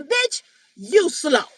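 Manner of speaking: lightly voiced outraged scolder; mocking body-part voice. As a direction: drag out the insult, then snap up in disbelief. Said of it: "Your pussy is even saying".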